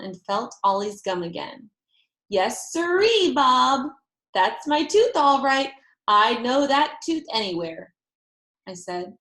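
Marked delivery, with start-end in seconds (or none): 2.3-7.9 proud delight. A narrator's reading. Girl feeling baby's gum, proudly sure. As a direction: crow with certainty.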